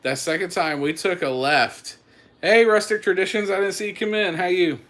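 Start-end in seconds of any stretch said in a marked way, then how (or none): 2.4-4.8 excited greeting. Real, not acted. Greeting viewers by name.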